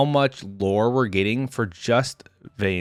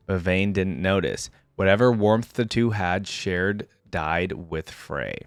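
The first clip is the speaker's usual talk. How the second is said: somber story narration; 2 semitones lower than usual. A narrator's reading. Reader tells of Frey's collapse, somber narration. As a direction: read the tragic aftermath gravely, taking time. Reads the aftermath aloud.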